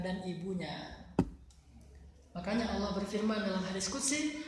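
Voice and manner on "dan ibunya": soft, very slow confession; remorseful hush. Retold or imitated. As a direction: let it fall away, regretful. Man confesses his forgotten prayer.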